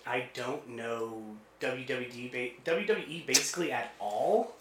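usual speaking voice

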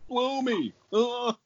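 high squeaky elf voice, far above his own; elf impression. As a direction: pitch way up like a cartoon elf. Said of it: "That's my elf impression".

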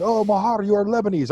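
high imitation of a girl; girl's gushing voice. Cafeteria girl to a regular customer, imitated high voice. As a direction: pitch it up, imitating her delighted discovery. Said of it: "she was just like".

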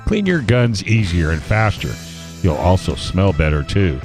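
put-on bright, upbeat old-time ad read; chipper 1950s ad. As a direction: sell it like a vintage radio ad. Reads a sponsor ad.

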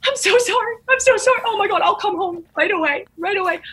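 high, frantic mock-tearful apology; a hammed-up high fake panic. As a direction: act out a staged emergency call. Faking distress on phone.

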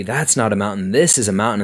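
light Australian movie-quote imitation; Crocodile Dundee. Colby's mountain joke retold to the host, lightly voiced Australian accent. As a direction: quote it with a hint of Aussie accent. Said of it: "like, Crocodile Dundee".

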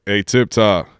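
lightly voiced coach's catchphrase; Coach Moore. Host quotes his old coach's greeting verbatim, light impression. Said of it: "this is exactly how he sounded".

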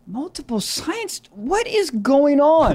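slow, stunned disbelief; incredulous. Real, not acted. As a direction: drag it out in shock. Stunned by odd school story.

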